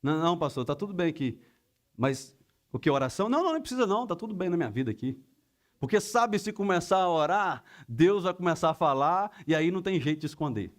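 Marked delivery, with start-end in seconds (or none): 0.0-5.2 hurried mock brush-off of the pastor; defensive. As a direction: fend off the offer, jumping up in pitch at the refusal. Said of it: "naquela defensiva".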